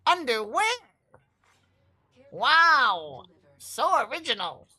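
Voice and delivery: loud, high mocking sarcasm; sarcastic. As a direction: jeer at the lame joke. Mocking a friend's joke.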